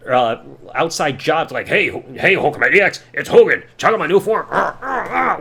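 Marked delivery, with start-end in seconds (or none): 1.7-4.5 loud, hammed-up wrestling promo; mock hype announcer read; wrestler promo voice. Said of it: "doing that voice work". 4.5-5.4 strained grunting. Retold or imitated. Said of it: "sounding like he's constipated".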